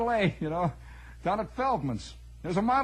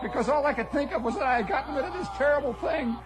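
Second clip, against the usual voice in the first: laughing; 6 semitones higher than usual. Real, not acted. Grows happier as father scolds.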